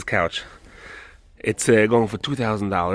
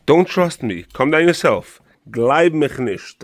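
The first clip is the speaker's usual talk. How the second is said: excited urging; 5 semitones higher, 3 dB louder, slower than usual. Real, not acted. Urging viewers to visit store.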